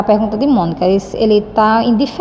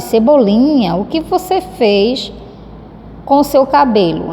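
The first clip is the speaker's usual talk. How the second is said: surprised question; 2 semitones higher than usual. Shown as a demonstration. Teacher rereading Mônica's line to show her astonishment. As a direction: stretch out the shock in the question. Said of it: "quando ela diz".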